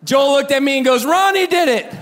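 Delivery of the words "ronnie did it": very high, loud imitation of a tattling kid; tattling outburst. Brother rats on him to dad, high loud blurt. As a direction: mimic little brother ratting you out, loud.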